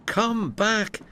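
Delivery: high, urgent call back; yelled. Acted. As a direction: call him back sharply. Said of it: "yelled the driver".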